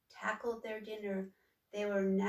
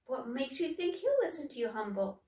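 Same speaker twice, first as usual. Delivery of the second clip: higher, quick doubtful question; sister asking; 4 semitones higher than usual. Acted. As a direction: doubt him gently. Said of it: "Troika asked".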